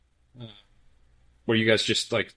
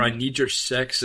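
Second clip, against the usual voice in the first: quoting a singer. Retold or imitated. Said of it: "is what a singer said".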